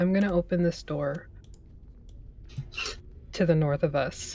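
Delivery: very quiet, hushed whisper. A player's character speaking to Grenlead, speaking quietly. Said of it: "I'm just gonna say quietly to Grenlead".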